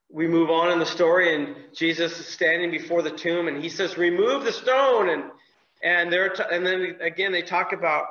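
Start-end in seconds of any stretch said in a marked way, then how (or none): 4.0-5.1 commanding call. Acted. Jesus commands at the tomb.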